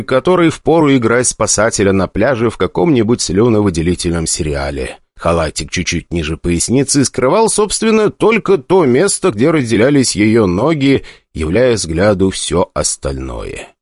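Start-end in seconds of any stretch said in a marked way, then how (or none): none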